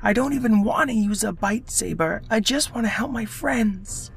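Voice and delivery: put-on high, eager little fish boy; young fish voice. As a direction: pitch it up like a small earnest fish. Luca speaks in the story.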